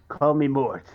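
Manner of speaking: ordinary talk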